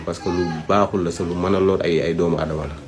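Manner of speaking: usual speaking voice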